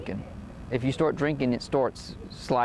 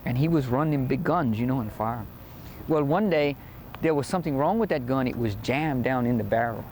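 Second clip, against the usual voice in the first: put-on Cajun accent. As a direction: tell it like a Cajun joke. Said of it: "when I tell the Boudreaux and Thibodeau jokes".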